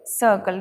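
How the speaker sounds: सर्कल as suh-kul; silent r. Shown as a demonstration. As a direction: say सर्कल without the r. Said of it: "ये स".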